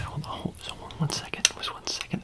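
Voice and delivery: hushed aside. Acted. Turns back to the waiting patient.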